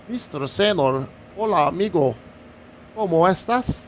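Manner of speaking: lightly hammed Spanish accent; put-on Spanish accent. Streamer greeting a viewer in chat, playful Spanish accent. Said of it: "I said it with that accent".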